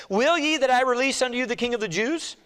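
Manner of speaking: high, projected proclamation; Pilate addressing a crowd. Acted. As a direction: put the question to a crowd. Pilate's question read out to crowd.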